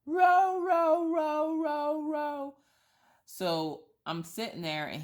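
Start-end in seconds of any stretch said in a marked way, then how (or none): 0.0-2.5 very high, loud, slow howled row; a dog howling "row" with a rolled R; dog saying row. Shown as a demonstration. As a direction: howl row with the R heard. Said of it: "you can actually hear the R in row".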